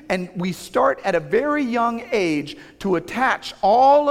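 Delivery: slow, emphatic preaching on each "all"; building sermon. Acted. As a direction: rise into the preacher's appeal. Preaching to the congregation.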